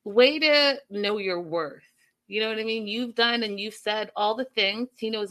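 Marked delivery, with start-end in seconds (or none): 0.0-1.8 applaud her like a cheerleader; cheering. Retold or imitated. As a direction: enthusiastic cheer. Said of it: "And I was like".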